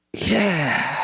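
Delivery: drawn-out yes bursting into helpless laughter; cracking up. Retold or imitated. Husband admitting to wife it's funny, cracking up. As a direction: squeeze the word out into a laugh.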